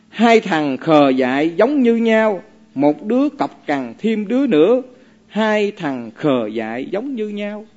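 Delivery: slow measured chant of a verse; reciting verse. Acted. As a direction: recite each word evenly, slowly. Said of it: "ông đọc như thế này". (đọc kệ chậm, ngân nga)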